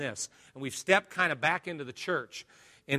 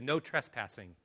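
low, much softer flat warning; stern sign; 4 semitones lower, 8 dB quieter than usual. Acted. The world's sign to Jesus, low and soft. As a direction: read it like a cold posted sign.

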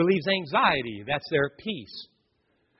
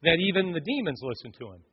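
amazed crowd; 2 semitones higher, 3 dB louder than usual. Retold or imitated. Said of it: "they were all amazed".

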